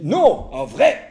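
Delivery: a pushy wife insisting; wife's voice. Acted.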